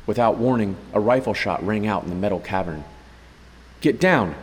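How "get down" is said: loud, high command under gunfire; barked order. Acted. Major ordering his companion down as shots ring out, loud. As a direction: snap the order to take cover. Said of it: "Cuddy ordered".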